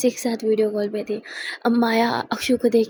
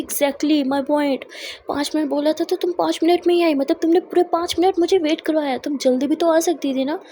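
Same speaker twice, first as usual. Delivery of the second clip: raised, higher, nagging rebuke; irritated scolding; 4 semitones higher than usual. Acted. Charu scolding Akshu in the car, raised and annoyed. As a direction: scold her for making you wait.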